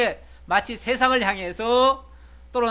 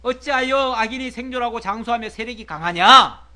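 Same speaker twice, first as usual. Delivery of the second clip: louder, with a strong push on 어찌하여 at the start; emphatic repeat; 3 semitones higher, 7 dB louder than usual. Shown as a demonstration. Preacher repeats Job's challenge to his friends, louder and emphatic. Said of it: "그러니까 너희들 말처럼".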